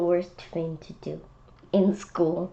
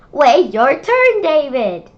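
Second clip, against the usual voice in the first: loud, slow, higher call; scolding teacher; 5 semitones higher, 11 dB louder than usual. Acted. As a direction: stop him cutting in. Teacher stopping line-cutter.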